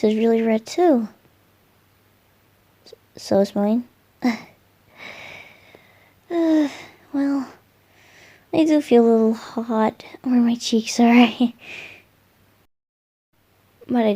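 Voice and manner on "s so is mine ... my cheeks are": whisper. Acted. Shy confession.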